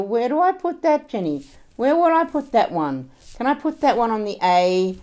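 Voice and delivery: loud, agitated questions tumbling out; frantic mother. Acted. Mother to Jenny over her accounts, frantic and loud. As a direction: badger your daughter loudly, pitch jumping up. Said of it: "my mother in her restaurant doing her accounts".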